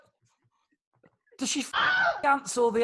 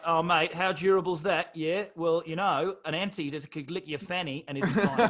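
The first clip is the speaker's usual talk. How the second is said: put-on Australian accent; 4 semitones lower than usual. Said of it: "in an Australian accent".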